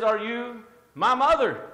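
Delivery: slow, lightly voiced little bird question; little bird asking. Preacher voicing the little bird searching for its mother, slow and plaintive. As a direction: draw it out like a lost baby bird. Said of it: "And says".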